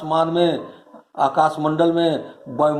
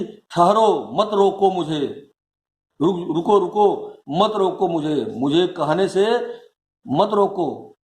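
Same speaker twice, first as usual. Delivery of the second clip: mildly acted queen's protest, slightly raised pitch; insistent protest; 2 semitones higher than usual. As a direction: lightly voice a queen demanding to be heard. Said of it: "तो कहती हैं".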